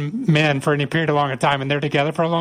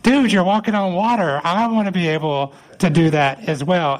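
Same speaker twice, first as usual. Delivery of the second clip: high, awestruck eagerness easing down; eager pitched-up start, settling toward the end; imitated excitement; 5 semitones higher than usual. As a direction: play an excited disciple wanting a turn. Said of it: "see the excitement in his face".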